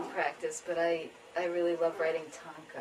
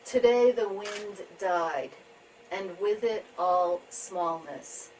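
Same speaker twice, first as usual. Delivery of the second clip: measured tanka reading with pauses between lines; poetry reading; slower than usual. Acted. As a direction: read each image slowly, letting it settle. Reads own tanka.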